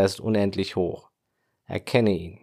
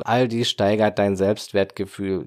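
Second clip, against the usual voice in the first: Selbstwertgefühl with a light lean on Gefühl; stress on Gefühl. Shown as a demonstration. Podcast coach to listener, Selbstwertgefühl with the weight on Gefühl. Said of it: "Die Betonung liegt auf Gefühl".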